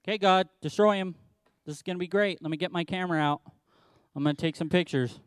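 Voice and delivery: a spectator waiting for fireworks; gleeful anticipation. Retold or imitated. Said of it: "sits on a hill and waits for the show".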